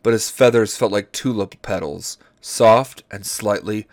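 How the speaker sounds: measured, deliberate reading aloud; story narration. Acted. Host reads dinosaur romance to friends, story narration. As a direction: read each phrase out carefully.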